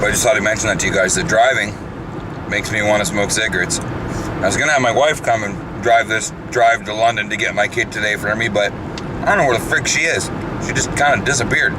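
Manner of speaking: talking while chewing gum; words round a wad of gum. Real, not acted. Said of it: "chewing some gum".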